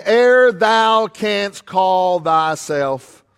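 very slow, grave prophecy; solemn floating voice. Acted. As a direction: intone it like a voice on the wind. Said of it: "The voice came floating by".

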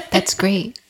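half-hearted, put-on enthusiasm; fake excitement. Podcaster imitating a comedy skit's hosts, mildly feigned excitement. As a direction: act excited without really being excited. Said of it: "they try to act excited, but they're not excited".

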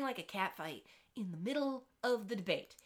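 ordinary talk, nothing marked

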